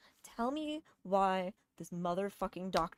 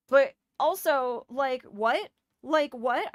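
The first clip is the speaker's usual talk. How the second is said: loud, slow disbelief, like what?; exasperated disbelief at the doctor; incredulous; 3 semitones higher, 6 dB louder, slower than usual. Real, not acted. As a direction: throw up your hands in disbelief. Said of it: "incredulous at doctor's logic".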